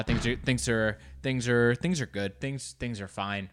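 hesitant, half-hearted reassurance; unconvincing reassurance. Pretend. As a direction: stumble into an unconvincing claim of being okay. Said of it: "I doubt that was convincing".

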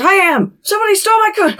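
very high, squeaky-pitched protest; hammed-up frantic insistence; mock panic. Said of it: "Like, full panic".

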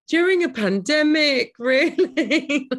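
high, loud "really?"; incredulous. Retold or imitated. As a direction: sceptical disbelief. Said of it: "some people were like".

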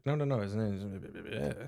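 slow fading whisper. Retold or imitated. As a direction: trail off into a whisper. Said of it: "He's whispering".

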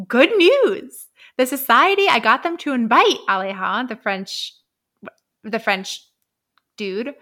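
imitating a chipper Frampton; excited Frampton. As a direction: burst in with good news. Frampton voiced, cheery announcement.

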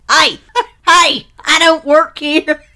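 loud, high mock Australian that lands in Texas; very poor Australian accent. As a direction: call out in a badly faked Australian accent. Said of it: "doing very poor Australian accents".

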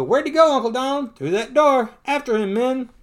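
lightly acted rallying shout; urgent cartoon chase. Ducks chasing the bear cub, high urgent calls. Nephews and Donald start the chase.

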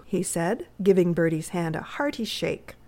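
usual speaking voice

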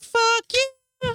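high, exaggerated mock snap; mock snarky. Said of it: "I was like".

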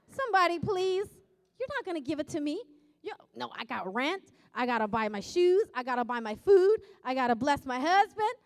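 hammed-up plea for money; joking to the congregation, loudly begging; mock begging.

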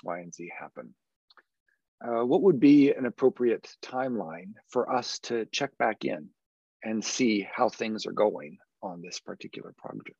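flat, falling closed questions; firm downward questioning tone; credible voice. Shown as a demonstration. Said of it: "I used what's known as a credible voice".

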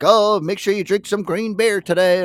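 high, slowed sing-song advice, imitating the friend; cheerful reminder. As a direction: nudge a buddy to celebrate Saint Patrick's Day. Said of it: "he's like".

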